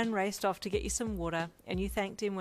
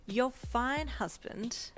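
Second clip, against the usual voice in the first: slow drawl; 6 semitones higher, much slower than usual. A narrator's reading. Drawn out, proud.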